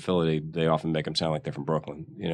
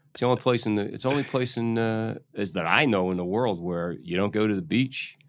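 ordinary delivery

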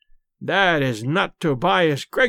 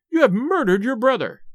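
accusing cry; 5 semitones higher than usual. A narrator's reading. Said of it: "cried Madame Charpentier".

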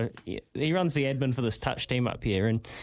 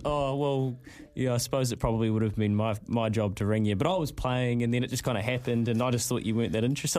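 casual excuse; 5 semitones lower than usual. Retold or imitated. Quoting Nige's excuse.

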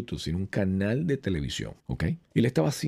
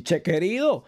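mock Argentine; 9 semitones higher, 4 dB louder than usual. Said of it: "Pero no voy a decir".

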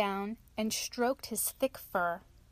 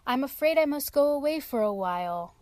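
bear announcing; 4 semitones higher, 5 dB louder than usual. Acted. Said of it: "announced the bear".

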